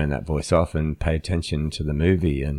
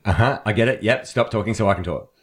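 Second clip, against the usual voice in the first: higher-pitched, brushing the speaker off; played-up hurry to take over; mock impatience; 4 semitones higher than usual. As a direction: imitate an impatient listener cutting in. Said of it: "as though you're saying".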